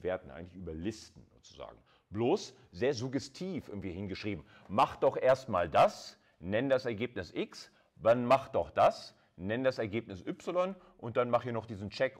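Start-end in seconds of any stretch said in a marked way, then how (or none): 4.7-12.2 bossy imperative read. Shown as a demonstration. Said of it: "das hat sich eben fast imperativ angehört". (langsam und betont im Befehlston)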